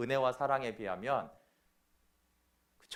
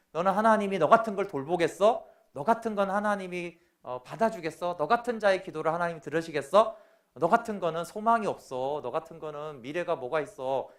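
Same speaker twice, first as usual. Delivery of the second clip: accusing Satan; 2 semitones higher than usual. Acted. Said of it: "이렇게 자꾸 정죄하고".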